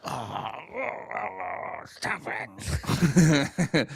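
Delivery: whispered, bashful stop it; a hushed, sheepish plea; embarrassed whisper. Real, not acted. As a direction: breathe it out, flustered. Embarrassed at the teasing.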